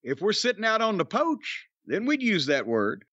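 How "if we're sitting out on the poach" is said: lightly put-on Southern porch talk; Southern accent. Host teasing northern co-host about words, Southern accent. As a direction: lean into Southern vowels on "poach". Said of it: "what this accent is you're doing".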